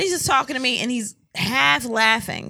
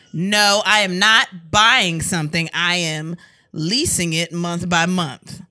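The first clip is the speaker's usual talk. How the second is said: lower, slowing, deliberate correction; imitated emphatic denial; 4 semitones lower, slower than usual. Partner explaining the lease to wife, imitated as deliberate insistence. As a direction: spell it out word by word, mock-patiently.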